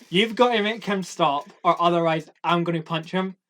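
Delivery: retelling the actor's threat, mildly menacing; mock threat. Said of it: "the actor said".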